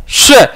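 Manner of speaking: श said with a hint of छ in it; shown pronunciation of sh. Shown as a demonstration. Teacher showing students श with a छ touch. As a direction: say श so a light छ sound rides along. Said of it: "यहाँ छ की आवाज आनी चाहिए".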